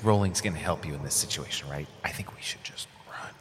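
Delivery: hushed whisper to a friend. Real, not acted. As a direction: whisper so the dragon cannot hear. Hiding plans from the dragon.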